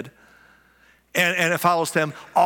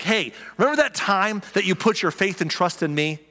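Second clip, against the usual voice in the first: proud father; 2 semitones higher than usual. Retold or imitated. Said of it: "He'd be like".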